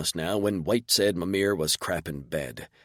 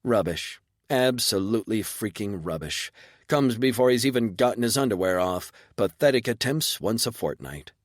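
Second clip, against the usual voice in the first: unimpressed; 3 semitones higher than usual. Acted. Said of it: "mildly surprised, tense, and unimpressed voice".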